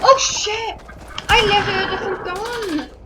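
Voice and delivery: startled exclamation. Real, not acted. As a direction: blurt it out caught off guard. Picks up wrong gun by mistake.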